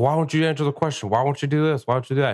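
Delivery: imitated badgering with rapid why-questions; needling, one question after another; pestering questions. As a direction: pile on the questions to wind him up. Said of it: "just asking him why a bunch".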